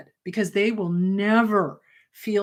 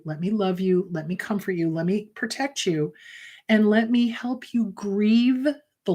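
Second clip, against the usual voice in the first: put-on comforting inner child; 3 semitones lower than usual. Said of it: "really talk her through".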